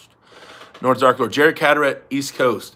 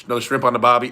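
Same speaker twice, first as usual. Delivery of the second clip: half-hearted fake Australian accent; rough, lightly faked Australian; failed Aussie accent; 2 semitones lower, faster than usual. Shown as a demonstration. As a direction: toss off a bad Aussie cliché. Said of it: "failed attempts at an Aussie accent".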